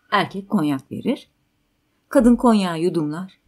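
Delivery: usual speaking voice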